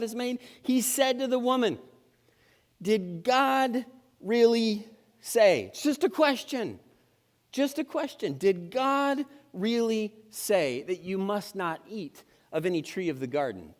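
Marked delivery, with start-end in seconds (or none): 2.8-8.4 serpent voice. Acted. Serpent's voice acted in story. 8.4-13.7 sly serpent. Acted. Serpent's tempting question acted.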